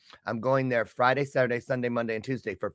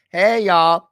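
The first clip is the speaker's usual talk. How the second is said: loud, high cheer to fans; excited shout-out; 5 semitones higher, 8 dB louder than usual. Real, not acted. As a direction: call out to the crowd. Shouting out to her coaching group.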